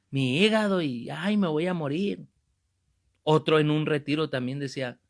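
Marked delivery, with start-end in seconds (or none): 0.1-2.3 mock moaning lament. Sick man moaning to God about his liver, mock lament. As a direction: ham up a sick man's self-pity. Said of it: "Ese le decía a Dios".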